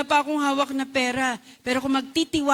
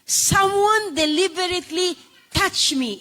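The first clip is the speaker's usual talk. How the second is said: slow, deliberate, weighty voice; Jesus insisting; 5 semitones higher, slower than usual. Retold or imitated. Jesus insisting to Peter, slow and deliberate. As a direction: lean on each word with certainty. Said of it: "Pero ang sabi ni Jesus".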